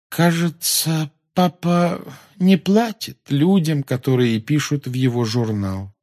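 slow, high, drifting voice; languid, high girlish reverie; dreamy. A narrator's reading. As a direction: muse aloud, half elsewhere. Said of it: "мечтательно проговорила Полумна".

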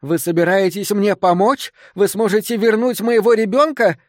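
bitter, near sobbing. A narrator's reading. Distraught mother to would-be helpers, bitterly incredulous. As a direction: challenge them with mounting desperation. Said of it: "Её смех был больше похож на рыдание".

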